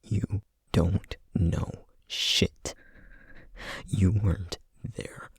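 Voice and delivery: voiced and very slow, each word pressed; slow angry growl. Vampire turning on the detective, slow and angry. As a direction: spit it out slowly, full of contempt. Furious retort after long pause.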